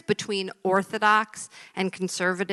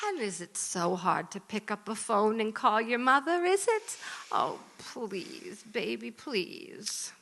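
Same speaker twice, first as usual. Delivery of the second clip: soft pleading; 5 dB quieter than usual. Acted. Mother pleads softly.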